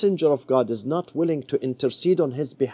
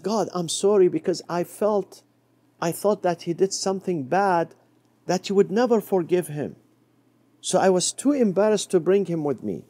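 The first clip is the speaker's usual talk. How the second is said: apologetic Moses; 4 semitones higher than usual. Acted.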